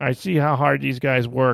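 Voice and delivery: high, small cartoon frog puppet voice. Quoting the quarterback praising his receivers: Mahomes's little Kermit the Frog voice. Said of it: "his little Kermit the Frog voice".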